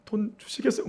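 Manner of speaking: soft, timid pleading to a father; imitating a child begging dad for pocket money, softly; mock begging. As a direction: beg meekly for money. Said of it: "막 이러면서 막 구걸하냐?".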